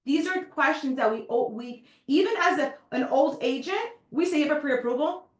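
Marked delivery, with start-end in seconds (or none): 4.4-5.3 "You have a pre-approval?" tossed off as a bare blunt question; the tactless way to ask "You have a pre-approval?"; blunt, wrong way. Shown as a demonstration. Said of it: "Like, no".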